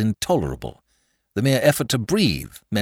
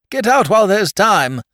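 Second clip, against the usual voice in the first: high, loud warning; urgent shout; 14 semitones higher, 8 dB louder than usual. A narrator's reading. Sinking Peter warns his rescuer away, urgent shout. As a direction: shout it urgently, pitched well up.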